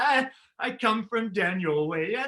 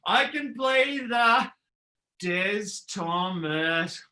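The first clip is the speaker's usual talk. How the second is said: shouting; slower than usual. Acted. Big announcing call in chant.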